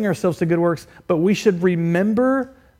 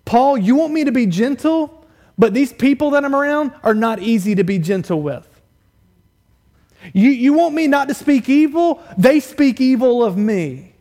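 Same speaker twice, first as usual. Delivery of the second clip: raised, louder mock protest; indignant objector; 6 semitones higher, 5 dB louder than usual. Imagined churchgoer objects to Paul about difficult people, indignant. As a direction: protest the unfairness, questions pitched high. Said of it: "you know what the objection is".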